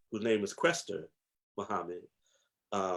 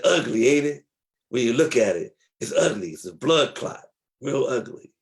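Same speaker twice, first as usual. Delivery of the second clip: elder's teaching; 3 semitones higher, 4 dB louder than usual. Retold or imitated. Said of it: "He said".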